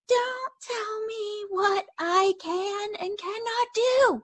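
high, slow, choked-up cry of frustration; tearful outburst. Retold or imitated. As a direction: snap at him with tears rising. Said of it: "And I immediately burst into tears".

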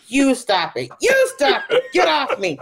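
high, laughing mock fight; mother and daughter wrestling on a rooftop, giggling; playful mock scuffle. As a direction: squeal it like two grown women play-wrestling. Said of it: "holding each other by the shoulders going".

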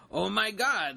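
lightly acted starstruck exclamation; retold freak-out. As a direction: imitate a fan freaking out, mildly. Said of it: "she freaked the hell out".

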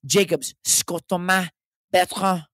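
slow, grand show-host introduction; hammed-up announcer. Host introducing himself at sign-off, hammed-up announcer.

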